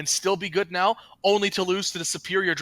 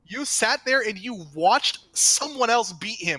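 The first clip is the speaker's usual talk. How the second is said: mock exasperated rant; 6 semitones higher, 6 dB louder than usual. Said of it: "You're like".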